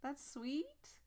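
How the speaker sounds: mock aw with a loud, uneasy edge; creeped-out aw. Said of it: "It's more of a".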